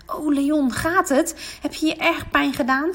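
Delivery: anxious check on a fallen friend; worried. Acted. Mirjam asking the fallen Leon if he is hurt, worried. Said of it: "vraagt Mirjam bezorgd".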